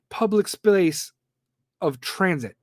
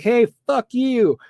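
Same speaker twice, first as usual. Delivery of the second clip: mock aggressive guy; 6 semitones higher, 4 dB louder, slower than usual. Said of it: "some fucking guy's like".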